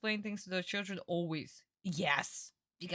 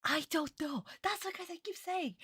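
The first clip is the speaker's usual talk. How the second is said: high excited outburst; emphatic agreement; 11 semitones higher than usual. Real, not acted. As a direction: exclaim it in agreement.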